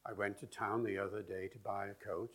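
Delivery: lilting iambic beat on "I went to town"; traditional stress-timed rhythm. Shown as a demonstration. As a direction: alternate weak and strong beats: I WENT to TOWN. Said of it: "That's traditional British English".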